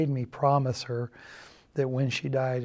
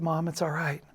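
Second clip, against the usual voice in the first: hushed comfort; 2 semitones higher, 6 dB quieter than usual. Retold or imitated. Comforting grieving mother on phone.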